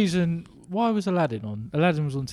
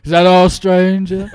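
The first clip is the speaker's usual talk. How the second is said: deadpan stranger line; 5 semitones higher, 14 dB louder, slower than usual. Retold or imitated. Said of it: "He just looked at me and went".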